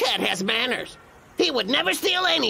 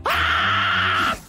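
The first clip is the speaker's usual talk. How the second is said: startled yelp; 3 dB louder than usual. Acted. Discovers his secret wallet.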